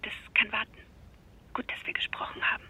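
hushed whisper so the father sleeps on. Acted. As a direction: whisper down the phone, careful not to wake anyone. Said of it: "Wieso sprichst du so leise".

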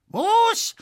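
high, loud shriek of outrage; outraged shriek. A narrator's reading. Widow hearing the clock's price, shrieking high and loud. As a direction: shriek it in disbelief. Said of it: "schrie die Amesreiterin".

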